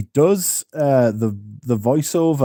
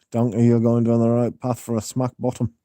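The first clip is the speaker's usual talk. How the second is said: Shrek-style Scottish accent, scolding Donkey; Scottish Shrek impression. Shown as a demonstration. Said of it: "Scottish accent from Shrek".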